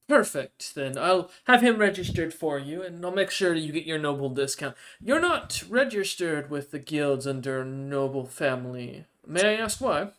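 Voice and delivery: lightly voiced Goliath official, pitched a little up; courteous official, lightly put on; courteous guild official. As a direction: play a hint of an obliging official. Goliath official registers the newcomer.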